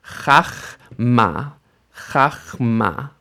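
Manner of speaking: chachma with an AH in the first syllable; expected reading. Shown as a demonstration. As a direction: say "chachma" as khakh-MA, open ah first. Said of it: "we expect this word to sound like".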